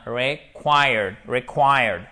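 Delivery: "required" begun "ré", close to French é; short I demo. Shown as a demonstration. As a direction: model "required", first vowel between I and é. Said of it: "il ressemble beaucoup au E accent aigu". (« required » avec un début proche de « ré »)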